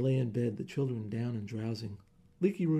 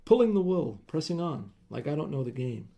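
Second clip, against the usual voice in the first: angry rant; 3 semitones higher, 6 dB louder than usual. Acted. Husband ranting about Digby.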